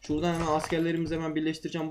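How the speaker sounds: groggy just-woken-up voice; just woke up. Real, not acted. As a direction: still sleepy, voice not warmed up. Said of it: "sesim garip geliyorsa kusura bakmayın. Yeni kalktım". (yeni uyanmış uykulu ses)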